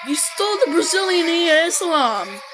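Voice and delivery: indignant outburst. Real, not acted. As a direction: call out the theft in outrage. Indignant outburst, then repeated calmly.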